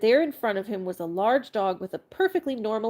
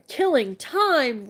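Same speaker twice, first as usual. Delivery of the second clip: slow, loud, higher angry roar; roaring outrage; 5 semitones higher, 5 dB louder, much slower than usual. Acted. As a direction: bellow it in disbelief. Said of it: "roared the dog".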